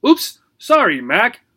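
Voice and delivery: high startled gerbil; squeaky shocked apology; horrified gerbil. Acted. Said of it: "cried Obie, horrified".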